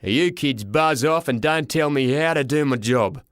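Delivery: put-on gruff man ordering kids away; surly, booming official; angry porter. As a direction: growl it with rising temper. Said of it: "He was starting to get angry".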